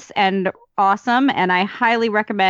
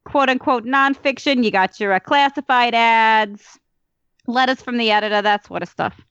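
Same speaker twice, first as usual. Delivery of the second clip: put-on Brooklyn accent; 3 semitones higher than usual. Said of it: "I meant to be doing this whole thing in a Brooklyn accent".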